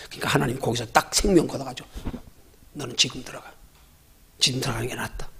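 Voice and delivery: a hint of God gently calling someone home; voicing God. God deciding to take a soul.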